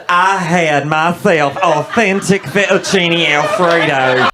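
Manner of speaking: slow, drawn-out caricature voice; dumb white lady. Acted. White lady bragging about her meal in Italy, slow mock voice. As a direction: play a clueless tourist, stretching the words. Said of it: "some dumb white lady went to Italy".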